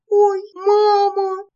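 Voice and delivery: высокий, растянутый вскрик испуга; ахни высоко и протяжно; испуганный вскрик. A narrator's reading. Апельсины превращаются в птиц. (высоко и протяжно вскрикивает от испуга)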